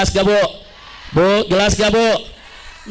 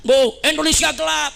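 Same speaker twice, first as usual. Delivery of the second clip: higher voice, imitated protest chant; students' mock cry; 5 semitones higher than usual. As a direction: mildly call it out like demonstrators. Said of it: "Mahasiswa teriak". (tiruan seruan mahasiswa)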